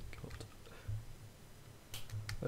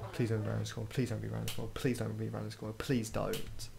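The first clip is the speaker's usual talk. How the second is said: nervous pleading; faster than usual. Real, not acted. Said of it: "I'm really scared".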